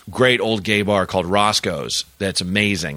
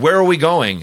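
high mock drunk girl squeal; high-pitched tipsy girl, a bit louder; 8 semitones higher, 5 dB louder than usual. Drunk girl quoted again.

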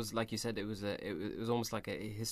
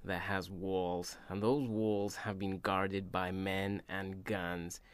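slow, low, measured courtroom menace; lightly voiced Jack Nicholson, slowed right down; a hint of a stern colonel lecturing; Jack Nicholson impression; 3 semitones lower, 5 dB quieter, slower than usual. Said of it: "Do a stupid accent".

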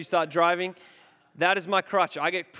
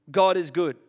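emphatic declaration; 6 dB louder than usual. Real, not acted. Declaring God's goodness.

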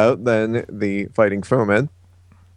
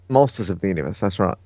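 lower, put-on British accent; 4 semitones lower, 4 dB quieter, faster than usual. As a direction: confirm it in mock British. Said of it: "speak in a British accent".

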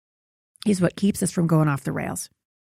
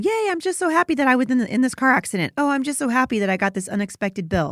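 mock cheer; 5 semitones higher than usual. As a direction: fake cheerful, higher and faster. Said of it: "there's a difference between going".

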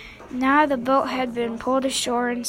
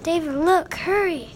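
urgent, higher-pitched call to look; 5 semitones higher, 3 dB louder than usual. A narrator's reading. Boy rousing his brother to look, urgent call. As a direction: read it as a pressing alert.

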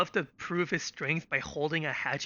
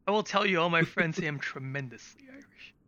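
Trump impression. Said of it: "This is Trump's Irish".

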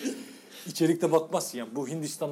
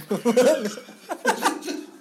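high burst of laughter; loud laugh; 9 semitones higher, 6 dB louder than usual. Real, not acted. Loud laugh at favorite part.

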